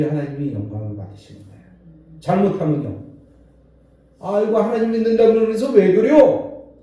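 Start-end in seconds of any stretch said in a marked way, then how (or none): 4.2-6.7 accusing complaint. Retold or imitated. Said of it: "그러면서 막 따져요".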